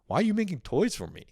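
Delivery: put-on a kid scolding China for making his toys; indignant kid. Grown man voicing a kid who scolds China, high and indignant. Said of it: "Like, not like".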